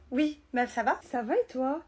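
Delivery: cheerful phone greeting; super happy. Acted. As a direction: greet your friend, bursting with news. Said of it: "Tu m'as l'air super contente". (toute contente au téléphone)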